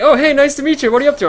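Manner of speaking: high, loud cheery manager voice; friendly bank manager. Retold or imitated. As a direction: greet him like an eager manager.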